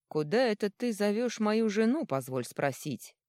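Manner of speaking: cold menace, last words slowed; icy, slow threat. A narrator's reading. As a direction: freeze him out from the doorway. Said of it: "раздался от двери ледяной голос".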